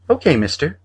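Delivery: put-on little boy agreeing; a small boy says okay; high child voice. A narrator's reading. Boy answers the man, high child voice.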